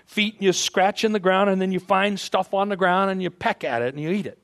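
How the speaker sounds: lightly voiced mother chicken laying down the rules; mother hen showing the chick how it's done; mother hen teaching. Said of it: "he says".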